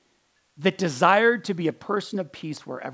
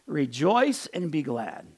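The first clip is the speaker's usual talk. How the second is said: gentle rejoicing; slower than usual. Shown as a demonstration. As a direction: let the joy settle gently. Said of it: "not aggressive and offended".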